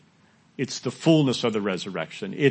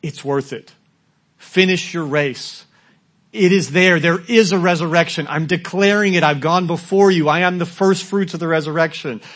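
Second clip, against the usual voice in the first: louder, rising call to keep on; Jesus calling back; 5 semitones higher, 6 dB louder than usual. Acted. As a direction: urge the runners on, lifting the voice. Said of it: "he turns around and he says".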